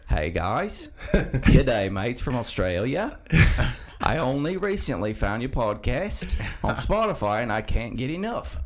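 hammed-up Aussie voice, drawn-out g'day; reading a fan email in a shaky Australian accent; bad Australian accent. Fan email read in a mock Australian accent. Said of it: "a really shitty Australian accent".

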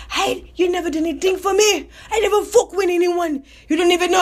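mocking imitation of a Nigerian accent. Rival leaving complaints on his answering machine, imitated Nigerian accent. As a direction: laughingly put on a Nigerian accent. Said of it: "she was Nigerian".

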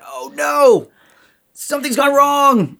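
put-on high, fearful inner child voice; mock fear. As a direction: cry out in childish alarm. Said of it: "gut clenching fear".

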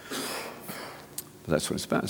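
slow hushed whisper. Acted. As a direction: breathe it out slowly, under the voice. Hushed aside closing point.

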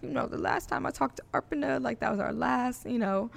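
mock tearful, quiet crying voice; hammed-up teary podcast voice. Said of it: "That's my crying voice".

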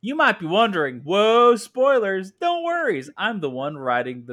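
put-on high, loud Southern-accented narrator; Yamato. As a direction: play a chatty Southern belle narrator. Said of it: "I don't know why she has an accent with me".

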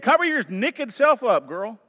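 high, playful Southern scolding with "naked" as "nekkid"; Southern accent. Shown as a demonstration. Pastor quoting how the South scolds a girl, Southern accent. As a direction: say it Southern, "naked" becoming "nick-id". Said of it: "as we say in the South".

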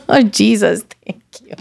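real laughter dissolving into a whispered thank you; joyful laughing. Real, not acted. Woman thanking Jesus for sparing her, joyful laughing. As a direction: laugh into a breathless, fading thanks. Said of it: "me río de gozo".

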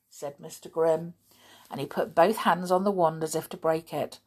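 usual speaking voice

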